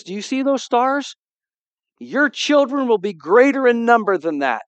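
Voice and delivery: voice of God. Retold or imitated. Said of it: "God says".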